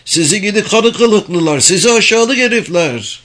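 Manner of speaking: high-pitched furious shouting; hateful yell. A narrator's reading. Galta insults the men above, hateful yell. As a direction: hurl insults with pure hatred. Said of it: "diye nefretle haykırdı Galta".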